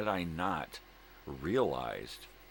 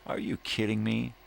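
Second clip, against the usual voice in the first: incredulous outburst; 7 semitones higher, 5 dB louder than usual. Real, not acted. Ranting at employers.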